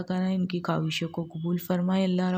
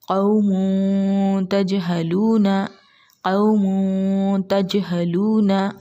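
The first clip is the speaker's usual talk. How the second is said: slow tajweed recitation; slower than usual. Shown as a demonstration. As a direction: recite each syllable slowly with a bounce on the d. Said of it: "तो पढ़िए".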